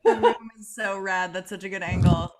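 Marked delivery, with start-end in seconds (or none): none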